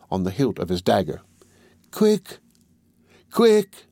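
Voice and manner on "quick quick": higher, urgent, getting louder; higher urgent cry that grows louder; urgent call. Acted. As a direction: hurry the horse along, pushing harder. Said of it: "said the deaf man".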